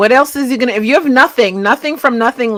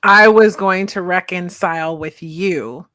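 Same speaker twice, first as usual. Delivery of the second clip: slow, lower and mocking; slow, lower mock repeat; mocking echo; 3 semitones lower than usual. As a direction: echo his line with disbelief. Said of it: "that's just powerful".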